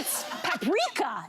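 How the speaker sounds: PAPRIKA with the stress moved to the middle, pap-REE-ka; corrected paprika. Retold or imitated. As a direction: quote the correction, stressing the second syllable of paprika. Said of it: "she claims".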